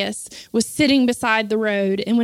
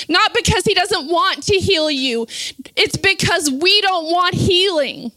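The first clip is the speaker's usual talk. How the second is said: raised, urgent sermon delivery; higher-pitched fervent preaching; impassioned preaching; 5 semitones higher than usual. Real, not acted. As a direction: preach it with mounting force. Preaches at full force.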